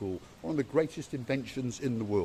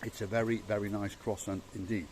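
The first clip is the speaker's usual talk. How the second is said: mouth full; 2 semitones lower, 5 dB quieter than usual. Real, not acted. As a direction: still chewing the croissant. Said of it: "Stop eating your croissant".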